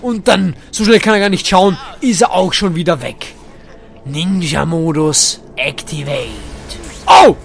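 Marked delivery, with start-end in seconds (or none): 4.0-6.3 slow, drawn-out robot-style command; hammed-up ninja mode activation; mock activation command. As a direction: announce it like a machine. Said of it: "Ninja ist ja eigentlich relativ leise".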